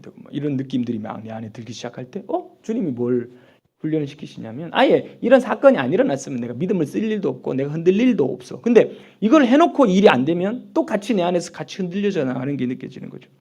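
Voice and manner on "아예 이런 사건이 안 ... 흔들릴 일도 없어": ordinary delivery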